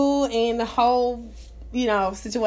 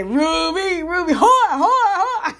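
higher, words breaking into laughter; much higher, laughing so hard she can barely talk; real laughter; 8 semitones higher, 4 dB louder, much slower than usual. Real, not acted. Cracks up at her own joke.

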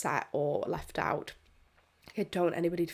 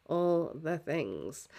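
slow, stretched repeat; drawn out slowly; much slower than usual. Shown as a demonstration. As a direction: stretch each word out slowly.

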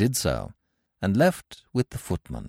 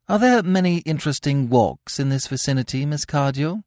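polite; 9 semitones higher, 4 dB louder than usual. Acted. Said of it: "quite politely".

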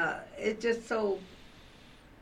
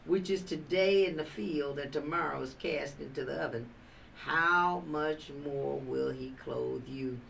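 scripture recitation; 4 semitones lower than usual. Acted. Preacher quoting the lilies verse to the study group, scripture recitation.

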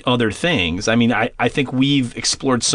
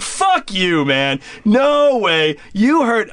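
higher-pitched protest, acted out; retold disbelief; 6 semitones higher, much slower than usual. Storyteller replays telling off the clerk, in disbelief. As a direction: push back in mock outrage.

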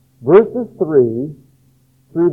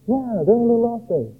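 agreeing church member; 6 semitones higher, 4 dB quieter than usual. Pretend. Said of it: "And some people would say".

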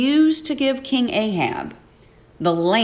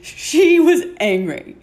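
laughing, pitched higher; amused laugh on the line; 7 semitones higher, 4 dB louder than usual. Real, not acted. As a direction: laugh through the repeat. Laughing repeat of previous words.

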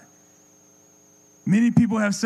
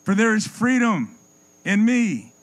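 Jesus inviting; 4 semitones higher than usual. Acted. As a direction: call them in like a shepherd. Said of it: "his son came and said".

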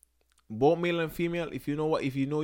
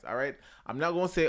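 normal talking voice

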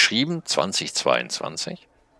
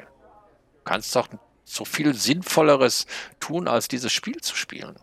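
very high, slow snail voice, lecturing; a tiny snail playing the conscience; scolding little snail; 11 semitones higher than usual. (hohe, langsame Schneckenstimme, tadelnd)

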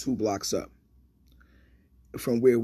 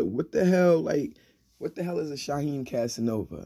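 mock disbelief; 4 semitones higher than usual. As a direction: imitate a friend scoffing in disbelief. Friend mocks the chosen name.

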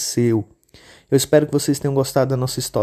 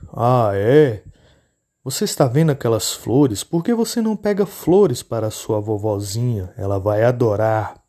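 wolf fishing for directions, a hint of menace; sly wolf; 3 semitones lower than usual. Lobo engana a menina. (lobo astuto, voz lenta)

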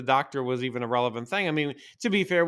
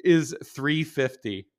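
laughing disbelief; 4 semitones higher, much slower than usual. Retold or imitated. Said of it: "She was like".

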